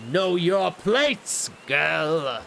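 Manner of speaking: lightly voiced cold aristocrat laying down the law; father scolding his daughter, lightly voiced and stern; stern noble father. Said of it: "Now all of a sudden he sounds like this".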